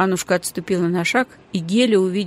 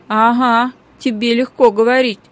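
pitiful voice; 4 semitones higher, 7 dB louder than usual. A narrator's reading. Girl complaining to the cook, pitiful whine. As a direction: plead for sympathy. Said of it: "жалким голосом протянула Геля".

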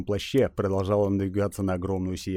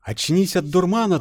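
booming goddess voice; 10 semitones higher, 5 dB louder than usual. Acted.

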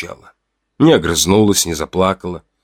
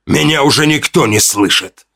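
shouted much higher; bitter growl; 7 semitones higher than usual. A narrator's reading. Hunter answering Una's hush, shouting bitterly. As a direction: hurl it out in despair. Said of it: "прорычал он".

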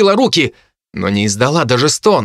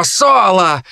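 harpy calling out; 5 semitones higher than usual. Acted. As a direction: summon him with a shrill call. Harpy calls Solo.

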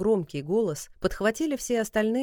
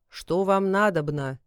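thunderous god voice; 4 dB louder, slower than usual. Acted. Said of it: "громоподобным голосом".

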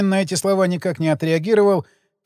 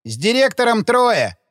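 exclaiming; 6 semitones higher than usual. Acted. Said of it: "воскликнул Шлямин".

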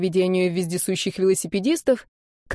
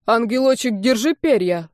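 commanding; 2 semitones higher than usual. Acted. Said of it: "скомандовал романист".

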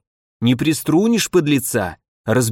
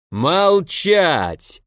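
sharp, higher bark of a command; barked order; 5 semitones higher than usual. A narrator's reading. Police chief silencing the cowering merchant, barking. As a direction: snap it out like an angry police chief. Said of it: "рявкнул полицмейстер".

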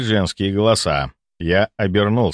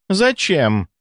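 high, haughty lady's "why?"; 8 semitones higher than usual. A narrator's reading. Countess's lady snubbing the doctor, haughty and high. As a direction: ask down your nose at a servant. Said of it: "надменно спросила".

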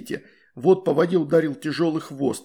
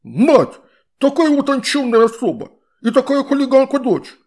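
high, loud outraged water-spirit voice; indignant shout; 10 semitones higher, 8 dB louder than usual. A narrator's reading. Water spirit indignant about Astrid's mother, high and loud. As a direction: cry out in scandalized outrage. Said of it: "возмущённо выкрикнул водяной".

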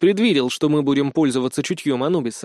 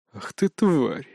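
growled, in a changed voice; an angry growl, understated; 5 semitones higher than usual. A narrator's reading. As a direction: growl at the cheap trick. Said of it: "прорычал Локи".

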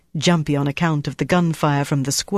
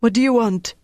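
panicked question; 7 semitones higher than usual. A narrator's reading. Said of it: "A look of panic came over her face".

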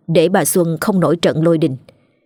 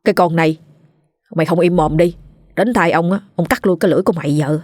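fearful; faster than usual. Acted. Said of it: "với giọng sợ sệt".

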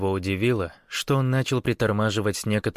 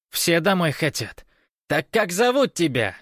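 high, raised retort; insistent guard calling out; shouted demand; 9 semitones higher, 4 dB louder than usual. A narrator's reading. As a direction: demand an answer across the barricade.

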